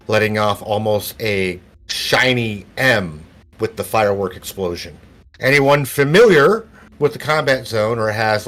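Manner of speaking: measured scene-setting with falling phrase ends; game master narration. Acted. Game master describes firework to players, measured narration.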